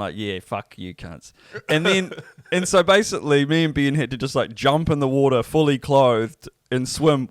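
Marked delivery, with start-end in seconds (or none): 0.2-1.3 low, quiet, drawn-out mock contempt. Brother watching his mates get dressed, imitated with low contempt. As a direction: imitate a contemptuous onlooker, slow and under the breath.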